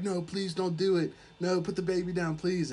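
mock pleading. Captive begs Dracula for the baby, mock pleading. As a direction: plead urgently, as if retelling it.

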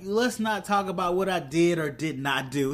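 measured, mildly defensive retelling; firm but understated deflection; evasive retort. Retold or imitated. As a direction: imitate someone closing the subject. Retelling Bucky evading Sam's accusation.

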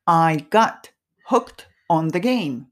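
very slow, spaced out for repeating; slow model reading. Shown as a demonstration. Teacher models the phrase for learners to repeat, slowly. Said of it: "ゆっくり言ってみますね".

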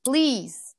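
slow, drawn-out plea; pleading. Retold or imitated. Daughter begging mom for help, slow drawn-out pleading. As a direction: stretch out each please, imploring. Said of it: "I'm looking for some kind of help".

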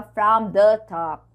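"from the top" with "the" fully sounded; careful, separated "from the top"; uncontracted wording. Shown as a demonstration. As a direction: give "the" its own beat in "from the top". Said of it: "Ela não fala".

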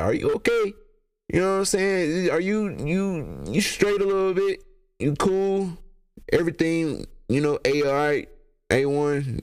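high, mock-worried questioning; concerned checking-in. Son checking that his mom is okay, mock concern.

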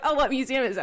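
high, loud curious question; curious friends. Retold or imitated. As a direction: eagerly ask like a nosy friend.

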